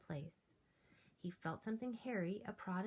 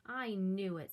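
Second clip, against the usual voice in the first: louder delighted cry; whoop of delight; 8 dB louder than usual. Acted. George delighted the Yeti loves spaghetti, louder whoop. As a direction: crow with delight. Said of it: "with a whoop of delight".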